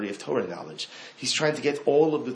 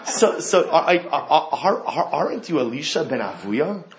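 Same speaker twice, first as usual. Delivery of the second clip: mock harlot; 4 semitones higher, 4 dB louder than usual. Harlot repeats her question.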